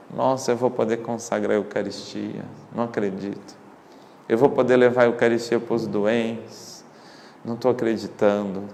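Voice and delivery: soft, awed disbelief; hushed wonder. Retold or imitated. Missionary voices seminarian awaiting ordination, in hushed wonder. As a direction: imitate quiet amazement, almost to oneself.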